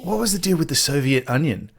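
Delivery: a touch of a clueless host asking earnestly; mock naive interviewer. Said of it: "when she goes".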